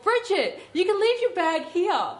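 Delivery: mock yell, pitched well above normal; retold yell. Dreamer yelling to her friend in the cave room, mock yell. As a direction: call out high without full volume. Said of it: "and I yelled".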